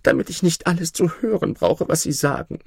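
the dying emperor's desperate call. Acted. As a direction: keep crying out against the voices. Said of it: "rief er".

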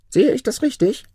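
very high creature voice; questioning jinni. A narrator's reading. Jinni asks Maruf to confirm his wish, questioning. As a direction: query it high up, as the spirit.

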